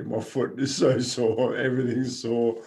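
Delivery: retold whinging. Runner imitating himself complaining to others, mild mock whinge. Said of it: "I'm just whinging to everybody".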